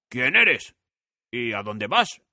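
curious scarecrow. A narrator's reading. Scarecrow asks Dorothy who she is. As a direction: ask with friendly curiosity.

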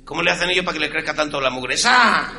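whisper-plead like a nervous Spaniard; Spanish accent. Retold or imitated. Spaniard urging his friend to ask, Castilian accent.

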